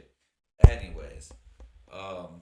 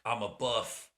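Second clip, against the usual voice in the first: The Rock; much slower than usual. Acted. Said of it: "I can't do a fucking Rock accent".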